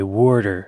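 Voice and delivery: water as "worder"; Pennsylvania water. Shown as a demonstration. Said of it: "in Pennsylvania they say water".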